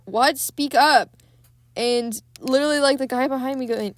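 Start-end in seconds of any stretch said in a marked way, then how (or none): 0.0-1.1 higher and louder, a playful call to speak up; mock yell at the screen, demanding he talk louder; mock shout. Shouting at the quiet priest.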